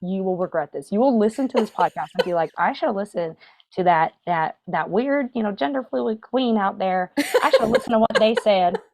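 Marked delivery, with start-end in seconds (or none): 2.6-8.8 put-on Southern accent. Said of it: "I keep doing a Southern accent".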